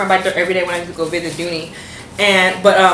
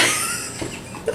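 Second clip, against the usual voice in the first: real laughter through the words, pitched way up; laughing; 8 semitones higher than usual. Real, not acted. Storyteller cracking up at her own imitation, laughing. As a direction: crack up while talking.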